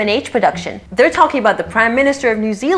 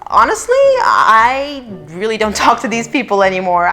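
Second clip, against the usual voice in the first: mocking quote. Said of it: "she even went as far as to say".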